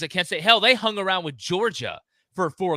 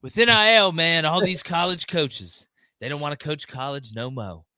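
mock alarmed whine, louder at the start; mocking panic; 4 dB louder than usual. Host mocking fans' college-coach panic, hammed-up alarm. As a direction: parody the hand-wringing fans, hammed-up. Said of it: "everybody's like".

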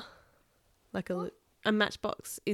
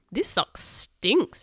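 put-on slow disgusted kid; 4 semitones higher, 4 dB louder, much slower than usual. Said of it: "said Kenny".

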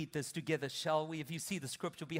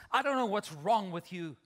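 dismissive spouse. Retold or imitated. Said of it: "the other spouse says".

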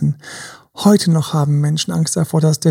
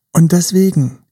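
ordinary talk, nothing marked

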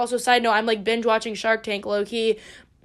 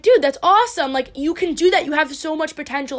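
excited cheering; 3 semitones higher than usual. Retold or imitated. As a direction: cheer her on like her biggest fan. Cheering friend on business dream.

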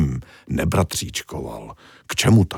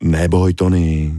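reassuring; 3 dB louder, slower than usual. Acted. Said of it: "ozval se ale pod ním hlas velké ryby".

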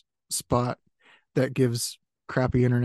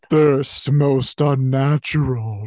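slow, louder ominous reading; 6 dB louder, slower than usual. Shown as a demonstration. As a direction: draw it out with dread. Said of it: "that's what thirst".

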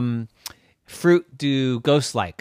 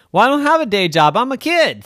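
high, loud, hurried objection; kid's protest; 9 semitones higher, 6 dB louder, faster than usual. Acted. Wilt answering the ghost, high indignant kid voice. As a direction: protest like an exasperated child.

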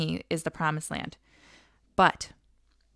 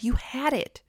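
God's voice; 3 semitones higher than usual. Acted. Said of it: "just what Katie said".

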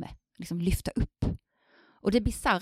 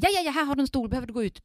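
retold hurried concern; 6 semitones higher, faster than usual. Voices concerned supervisor to student.

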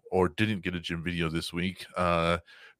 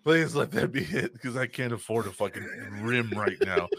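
mock pleading; 3 semitones higher than usual. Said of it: "I'm just like".

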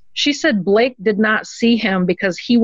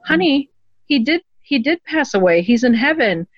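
gentle mother; 6 semitones higher than usual. Retold or imitated. Mother gently explaining death to child.

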